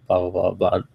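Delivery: usual speaking voice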